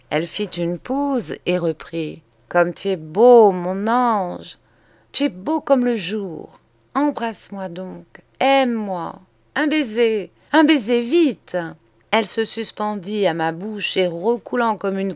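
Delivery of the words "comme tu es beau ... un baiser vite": adoring woman in love. Acted. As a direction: coax your lover, rising to an eager plea. Voices the woman begging for kisses. (amoureuse qui supplie, de plus en plus pressante)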